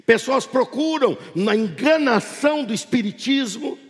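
projected sermon with stretched key phrases; impassioned pulpit proclamation; fervent preaching. Real, not acted. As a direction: drive each phrase out to the congregation, drawing out the stresses. Preaches to congregation at full force.

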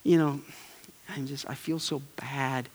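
a touch of hand-wringing regret, trailing quietly; remorseful. Retold or imitated. Preacher imitating a remorseful spouse, soft and sorry. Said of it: "Or we get remorseful".

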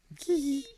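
high-pitched mock ghost giggle; ghostly giggle. Host illustrating the drowned girls' giggles, playful and high. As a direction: giggle like a little ghost girl. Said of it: "ghostly giggles are heard".

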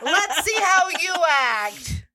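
giggling through the words; teasing with a laugh; laughing tease. Real, not acted.

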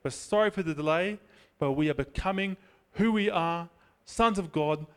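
slow, earnest prayer voice rising toward the end; closing prayer. Acted. Preacher praying to the Father, slow and earnest. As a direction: pray it over the congregation, building.

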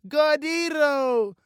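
put-on slow, high, loud toddler cheer; drawn-out baby chant; babbling baby. A narrator's reading. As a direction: babble it like a delighted two-year-old. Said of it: "Baby Annie clapped and babbled".

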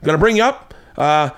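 high-pitched mock British host; horrible British accent. British host selling his club to comic, bad British accent. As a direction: rattle on in a badly faked British accent. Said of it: "I'm doing once again horrible accent".

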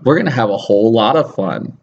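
forced, unconvincing hype; forced enthusiasm. Shown as a demonstration. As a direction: try to sound excited, fail. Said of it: "Is that better?".

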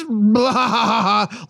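hammed-up burst of laughter; mock group laughter. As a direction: imitate everyone cracking up. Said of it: "Laughs all around".

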